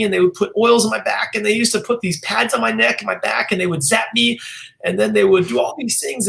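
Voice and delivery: put-on high-pitched eighty-year-old Jewish New Yorker; Jewish accent. Elderly woman describes old therapies to chiropractor, Jewish accent. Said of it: "how's my eighty-year-old Jewish accent?".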